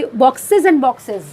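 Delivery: "boxes" stressed each time it comes. Shown as a demonstration. Teacher showing how a poet stresses a repeated word, stress on boxes. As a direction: lean on both words "boxes" in the phrase. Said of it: "इस word पे ज़्यादा stress देने के लिए".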